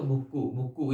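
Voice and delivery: put-on भुक्कू said with a doubled क्क, the way a child says भूख; baby word. Shown as a demonstration. Teacher showing the baby word parents use for hunger. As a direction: say भुक्कू short and babyish. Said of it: "बच्चा बोल नहीं पाएगा".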